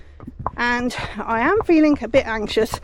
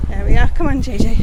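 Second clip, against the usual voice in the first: louder, urging the horse along; calling out to horse; 5 dB louder than usual. Real, not acted. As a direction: call the pony on, firm.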